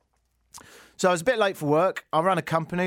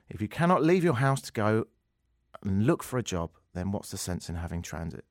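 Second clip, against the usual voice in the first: mimicking Rob Ford. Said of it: "then he said".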